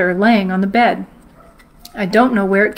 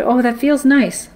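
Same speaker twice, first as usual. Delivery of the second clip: sleepy mom; 4 semitones higher than usual. Retold or imitated. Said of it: "half in and half out of sleep".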